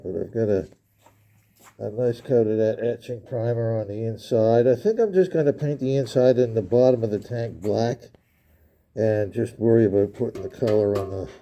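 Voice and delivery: muffled through a respirator mask; talking through a respirator. Real, not acted. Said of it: "why I sound kinda muffled".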